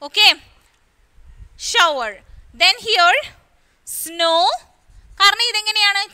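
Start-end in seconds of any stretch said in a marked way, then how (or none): 1.7-2.1 shower with "ow" in its first syllable; OW as in how. Shown as a demonstration. Teacher repeating shower for pupils, OW demo. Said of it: "how എന്ന രീതിയിലാണല്ലേ". 3.9-4.4 snow with a long "oh"; O as in tomorrow. Shown as a demonstration. Teacher starting the tomorrow column, long O demo. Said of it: "Tomorrow, അല്ലേ".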